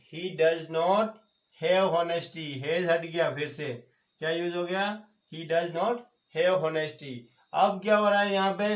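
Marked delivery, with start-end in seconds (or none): 0.1-2.5 very slow, word by word; slow dictation. Shown as a demonstration. Teacher dictating to class, very slow and deliberate. 5.3-7.1 very slow, word by word; slow dictation. Shown as a demonstration. Teacher dictating to class, very slow and deliberate.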